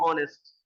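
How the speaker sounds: ऑनेस्ट said with a silent h, starting on the vowel ऑ. Shown as a demonstration. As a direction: say ऑनेस्ट as 'onest', no h sound at all. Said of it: "इस तरीके से बोलेंगे". (ऑनेस्ट को बिना 'ह' की आवाज़ के, सीधे 'ऑ' से बोलिए)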